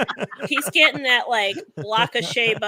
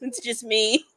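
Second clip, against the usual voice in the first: mock smug star. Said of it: "he's an asshole".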